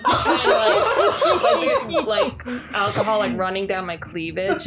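loud laughing through the words. Real, not acted. Player cracking up at her own spilled-drink bit, laughing loudly. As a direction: crack up while describing it.

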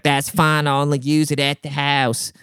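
lightly mock a dim complainer; stupid customer voice. Customer brushing off the worker about Wi-Fi range, lightly mocked stupid voice. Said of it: "like this in his stupid voice".

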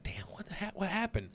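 high, softened startled questions; retold shock. Friend replaying his reaction to the text, retold shock. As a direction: ask it high, under the voice. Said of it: "I was like".

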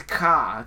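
"ka" with the R dropped, like Boston "car"; Bostonian pronunciation. Retold or imitated. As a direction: say "ka" low, with an open Boston vowel. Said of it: "just like a Bostonian dude".

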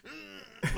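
high strained "mm" for a punch; imitated punch noise. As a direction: voice the effort of a swung punch. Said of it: "doing a punch".

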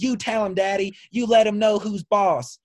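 mock yell, high-pitched and drawn out; retold daughter's yell. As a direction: imitate a daughter cheering on Daddy, high. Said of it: "they're just yelling".

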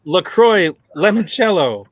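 mock French pronunciation of "Limoncello"; fake French accent. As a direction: say "LaCroix, Limoncello" with a hammed-up French lilt. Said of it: "It's fake French".

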